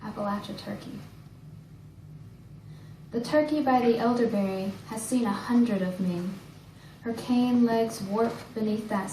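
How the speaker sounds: measured poem recital with pauses between lines; poetry reading. Acted. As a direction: recite each line deliberately, letting it settle. Reads own poem aloud.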